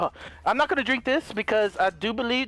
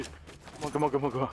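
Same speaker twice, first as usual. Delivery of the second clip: whispered urging; 9 semitones lower, 8 dB quieter than usual. Real, not acted. Whispering for enemy to step in.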